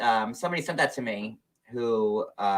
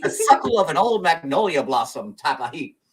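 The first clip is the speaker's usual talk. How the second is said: playful put-on Southern accent; 3 semitones higher, 4 dB louder than usual. Joking about magnolia heat, Southern accent. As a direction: ham up the Southern lilt a little. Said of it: "My Southern accent is amazing".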